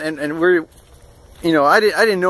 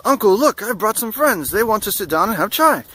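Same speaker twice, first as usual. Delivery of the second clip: lightly imitated eager kid, higher pitch; kid calling uncle; 6 semitones higher than usual. Kid presenting new friends to his uncle, lightly voiced eagerness. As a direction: pitch it up a little as an eager nephew. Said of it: "the kid goes".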